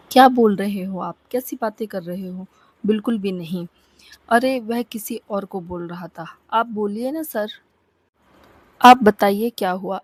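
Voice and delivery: a hint of a man's voice, hurried and covering up; Shambhu's voice, flustered. Zeenat covering a slip while faking Shambhu, flustered mild man's voice. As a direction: bluff as Shambhu, lightly voiced. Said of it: "जीनत ने शंभू की आवाज़ में कहा".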